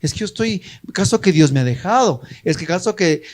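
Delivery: imitating an excuse-maker, fast and dismissive; hammed-up pretext; lightly mocking the absent member's excuse. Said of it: "simplemente el pretexto".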